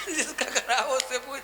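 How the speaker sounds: chuckling through "जिसका खराब है, उससे पूछ"; amused quoting with a laugh; laughing while quoting. Retold or imitated. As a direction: retell the reply while laughing. Retelling Babuji's reply, laughing.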